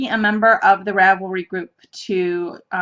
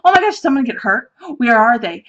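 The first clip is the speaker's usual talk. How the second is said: louder, hurried mock alarm; retold panic; 4 dB louder, faster than usual. Retelling their fear that someone got hurt, mock panic. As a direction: act out a rush of panicked thoughts.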